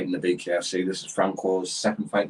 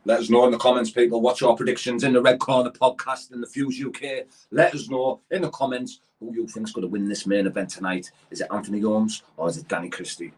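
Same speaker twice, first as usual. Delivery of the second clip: hype man; 2 semitones higher than usual. Acted. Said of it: "You're a good hype man".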